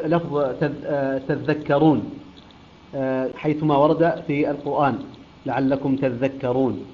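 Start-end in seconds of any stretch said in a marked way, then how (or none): 1.3-2.1 slow تذكرون, stressing a doubled ذ; doubled dhal. Shown as a demonstration. Teacher showing Qalun's reading, تذكرون with doubled ذ. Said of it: "حيث يقرأ بالتشديد". 5.5-6.8 لعلكم تذكرون, slow, with shaddah on the ذ; doubled dhal. Shown as a demonstration. Teacher quoting the verse, تذكرون with doubled ذ. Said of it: "تشديد الذال".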